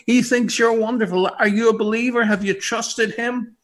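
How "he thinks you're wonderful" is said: louder, higher, stress on he; emphatic. Real, not acted. Preacher calling to listeners, emphatic and loud. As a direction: call it out so they hear.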